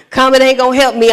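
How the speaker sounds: fast repeat of Comment ain't gonna help me; quick retort. Retold or imitated. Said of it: "And I said".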